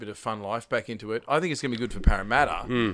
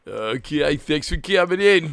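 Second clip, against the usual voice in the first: loud, drawn-out radio announcer voice; 4 semitones higher, 6 dB louder than usual. Imitating the other speaker's outro: imitating a breakfast radio voice. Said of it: "it's like that breakfast radio voice".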